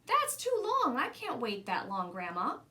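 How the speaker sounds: protesting. Acted. Child protesting the long wait.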